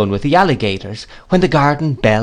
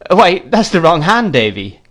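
laughing; 7 semitones higher, 4 dB louder than usual. A narrator's reading. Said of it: "laughed the gentleman".

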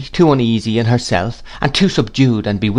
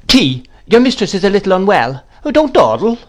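higher and louder brisk orders; commanding old aunt; 10 semitones higher, 4 dB louder than usual. A narrator's reading. Aunt orders the maid about, high and loud. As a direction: snap orders at the maid like you own the house. Miss Betsy orders the servant.

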